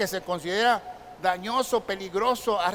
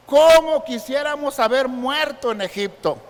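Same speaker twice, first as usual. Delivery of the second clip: loud, higher-pitched acted complaint; murmuración del pueblo; 4 semitones higher, 7 dB louder than usual. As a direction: complain aloud as the aggrieved crowd. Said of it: "En sus murmuraciones contra Moisés". (queja actuada en voz alta)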